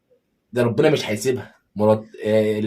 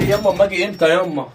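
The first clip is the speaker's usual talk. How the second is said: much higher, louder whining son; whiny son; 8 semitones higher, 6 dB louder than usual. Acted. Son to mother barred from home, high whiny plea. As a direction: whine at mom like a spoiled boy.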